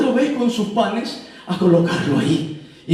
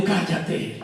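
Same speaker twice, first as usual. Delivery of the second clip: hushed command; 8 dB quieter than usual. Acted. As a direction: silence the accuser under your breath. Wise man silences the accuser. (orden seca en voz baja)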